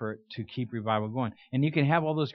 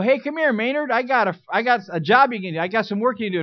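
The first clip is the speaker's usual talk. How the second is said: imitating the dad; 9 semitones higher, 8 dB louder than usual. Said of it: "Dobie Gillis' dad would go".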